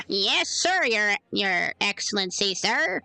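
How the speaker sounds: nervous witness voice. Acted. Timid witness answering the judge.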